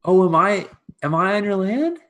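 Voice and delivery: high, loud halting surprise; flustered servant. Acted. Servant caught on farmer's land, flustered innocence. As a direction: act innocent, pitched well up.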